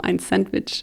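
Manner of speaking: "Sandwich" said as a German word after "ein"; prononciation allemande. Shown as a demonstration. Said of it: "je voulais dire en allemand". (« Sandwich » prononcé à l'allemande)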